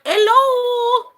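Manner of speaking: high, loud sing-song hello; mock the driver's awkward greeting; imitating a driver who barely speaks English; mimicking the driver. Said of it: "she was just kinda like".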